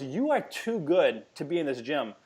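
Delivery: slow, earnest, heartfelt; slow conviction of a mentor; sincere encouragement. Retold or imitated. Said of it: "She goes".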